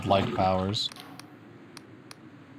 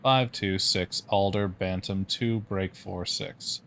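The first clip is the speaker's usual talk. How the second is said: slow even machine drone; mechanical voice; slower than usual. Acted. Number station voice reading code, slow and mechanical. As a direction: read the numbers like a machine, slowly. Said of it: "announces with mechanical regularity".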